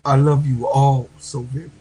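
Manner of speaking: tearful, heartfelt thanks to the sisters; real crying. Real, not acted. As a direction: push the words out through real tears. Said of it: "Real men cry too".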